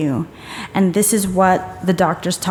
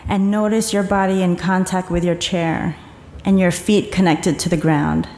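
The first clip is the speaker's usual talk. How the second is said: calm, even meditation guide voice; guided meditation. Acted. Speaker guiding the audience to relax, calm meditation voice. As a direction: settle the room gently into the body.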